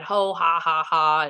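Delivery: spoken-out mock laugh; imitated group laughter. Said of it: "they're all laughing about it".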